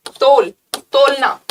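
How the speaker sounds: तोल, तोलना said slowly as the Hindi words. Shown as a demonstration. Teacher linking a word to Hindi, तोल drawn out slowly. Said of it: "तौल हिंदी वाला कर लो".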